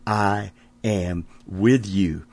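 slow "I am with you"; gentle assurance. Acted. Quiet reassurance after exhortation.

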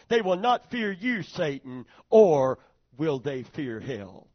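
loud proclaiming God. Acted. God declares to Satan.

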